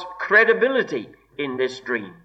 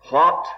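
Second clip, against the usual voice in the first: "what" said loud and rising; stressed what; 6 dB louder than usual. Shown as a demonstration. Preacher singles out the word, stressing what. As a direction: punch "what" sharply. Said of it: "emphasis upon the first word".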